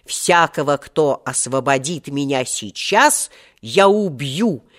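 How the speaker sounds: wrathful vow. Acted. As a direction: pronounce a death sentence deliberately. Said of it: "тогда я разгневался сильным гневом". (гневная клятва, с расстановкой)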